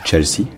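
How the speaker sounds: "Chelsea" as if French, but starting tch; French-style reading. Shown as a demonstration. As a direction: read "Chelsea" with French vowels and rhythm. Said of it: "en faisant attention".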